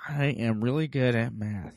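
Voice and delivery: slow, soft, forced through clenched teeth; gritted teeth. Retold or imitated. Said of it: "I had to say through gritted teeth".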